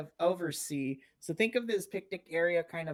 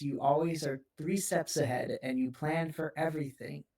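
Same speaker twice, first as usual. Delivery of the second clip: lightly acted tender reassurance; understated comfort, with patient pauses; genuine, empathetic. Aunt reassures her guarded nephew, genuine and gently empathetic. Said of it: "she just genuinely tells you".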